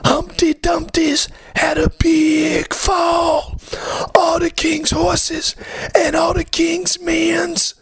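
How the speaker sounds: very high, shouted nursery rhyme; high-pitched poem. Pretend. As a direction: recite it in a squeaky cartoon voice. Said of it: "doing Humpty Dumpty poem".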